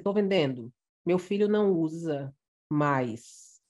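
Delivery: "meu filho não usa mais" said slowly with stress on "não"; slow down and lean on "não"; corrected phrasing. Shown as a demonstration. Teacher rereading the sale post with the right punctuation. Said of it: "mas deveria ser".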